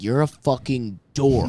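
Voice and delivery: lightly voiced drunk heckler, slow drawl; drunk construction worker. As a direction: imitate a hammered guy drawing out an insult. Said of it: "like a hammered construction worker".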